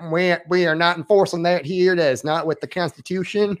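lightly put-on Southern accent; Southern sheriff accent. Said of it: "I'm not making fun of the accent".

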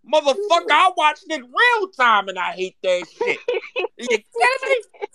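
fired-up rant. Real, not acted. Fan ranting to his cohost about a player's stats, fired up and loud. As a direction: let the outrage boil over.

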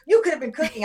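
lightly mock the husband's complaint; retold accusation. Husband blaming wife over dinner money, retold accusation.

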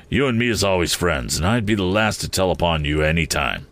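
confiding, as if alone; hushed confiding voice; confidential. Acted. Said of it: "speaking in a confidential voice".

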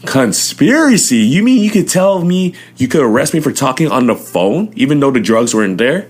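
outraged he can be charged; retold incredulity. Questioning the officers about a conspiracy charge, high indignant disbelief.

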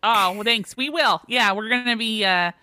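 put-on chatty man with a light Minnesota accent. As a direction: play it Minnesotan, lifting the pitch on the holiday plans. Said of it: "I have to do a Minnesota accent".

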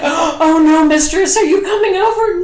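high, breathless flustered voice; panicked high sub voice. Retold or imitated. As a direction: squeak it out in a panic. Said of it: "And he's like".

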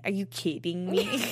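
put-on "Are you kidding me?" in mom's light foreign accent, laughing through it; a hint of mom's foreign accent, half laughing; mom's little accent. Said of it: "so she has this little accent".

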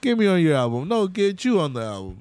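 hammed-up bro praise, pitch jumping; mocking two rappers hyping each other up; mock hype bros. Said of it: "talking about".

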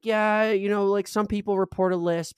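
imitating clinic lady. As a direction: lift the voice for a casual answer.

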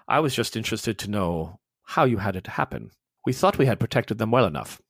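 a hint of a cold, low officer. Mueller explaining the deaths to Ross, low and cold. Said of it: "He says".

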